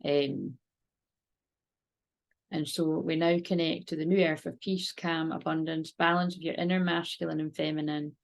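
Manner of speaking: calm, steady meditation voice; guided meditation. Acted. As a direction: lead a gentle visualisation. Guided visualisation and prayer.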